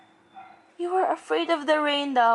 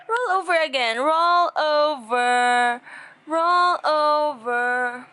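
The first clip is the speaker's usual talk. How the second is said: coaxing. Real, not acted. Coaxing baby to roll.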